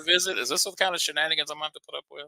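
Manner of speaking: put-upon, hammed-up protest; mock indignation. Southerner to Northern co-host about visiting up there, mock indignant.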